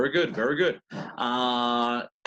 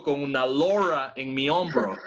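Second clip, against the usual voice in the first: gringo pirate. Pretend. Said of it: "si fuera un pirata gringo".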